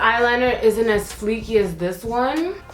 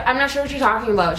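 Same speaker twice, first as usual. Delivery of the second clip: fake polite talk; 2 semitones higher, much faster than usual. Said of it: "your little fake little talk".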